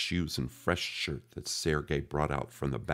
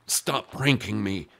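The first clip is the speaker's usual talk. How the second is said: mock shout; 6 semitones higher, 5 dB louder, slower than usual. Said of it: "keep from shouting".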